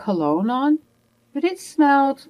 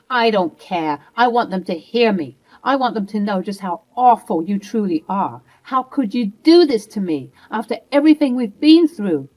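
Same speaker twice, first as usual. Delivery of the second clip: louder, raging and wounded; angry yelling; 4 dB louder than usual. Acted. Wife yelling at husband so neighbors hear, loud and angry.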